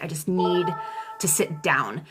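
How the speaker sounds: breathless whisper; out of breath, barely voiced. Real, not acted. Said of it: "I'm feeling out of breath".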